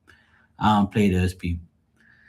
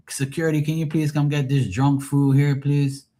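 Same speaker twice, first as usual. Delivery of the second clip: mic announcement; 4 semitones higher than usual. Retold or imitated. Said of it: "I went on the mic and said".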